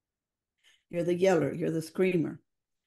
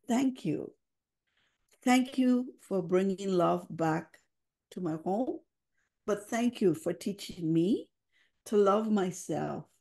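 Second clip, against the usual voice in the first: tender thanks; slower than usual. Retold or imitated. Crying child thanking mother.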